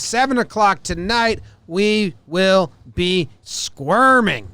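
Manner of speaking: slow, dramatic hype narration; dramatic buildup. Acted. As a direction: build suspense, word by word. Dramatic game day buildup.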